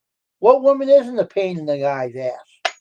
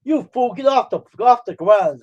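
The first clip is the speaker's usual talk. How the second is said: high, louder retold scolding; imitated scolding wife; 7 semitones higher, 5 dB louder than usual. Wife to husband laughing on the ground, imitated scolding. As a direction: scold him in a raised, mock-wifely voice.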